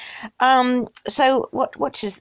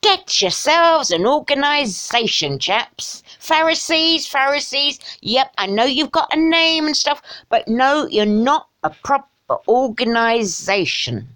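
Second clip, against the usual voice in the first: higher, put-on hectoring voice; mock Jesus; 5 semitones higher, slower than usual. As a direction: play Jesus lecturing chaps about organising. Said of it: "Jesus went round all the time going".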